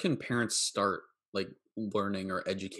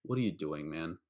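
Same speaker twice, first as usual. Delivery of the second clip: lower-pitched, understated retold question; retold low-key confrontation; 4 semitones lower than usual. Counselor retells pulling a camper aside, low-key question. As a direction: re-enact a low, unexcited challenge. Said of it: "I said it like that".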